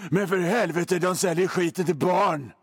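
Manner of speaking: a hint of a grim TV detective; mock crime drama line. Host parodying dreary crime series dialogue, lightly mock grave. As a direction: deliver it like a gloomy police series cliché.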